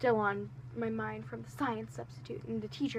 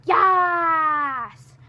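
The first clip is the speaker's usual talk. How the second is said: loud, high cry of victory; triumphant yes; 7 semitones higher, 11 dB louder than usual. Retold or imitated. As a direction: celebrate like you won the lottery. Seated next to her friend.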